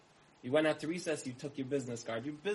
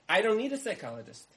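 higher, louder fed-up shout; exasperated outburst; 7 semitones higher, 7 dB louder than usual. Acted. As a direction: snap it at the useless guy. Frustrated homeowner rejects wrong card.

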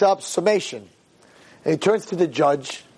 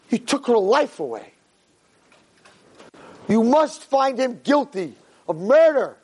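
raised, dramatic courtroom plea; passionate closing argument; 4 semitones higher than usual. Retold or imitated. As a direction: rouse the jury like a prosecutor. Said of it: "He's like".

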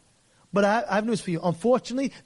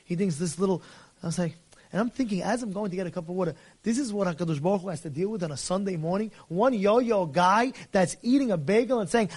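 ordinary talk

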